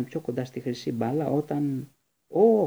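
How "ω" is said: sudden high, loud gasp of alarm; startled cry. A narrator's reading. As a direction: cry out in shock. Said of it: "φώναξε η Τσό".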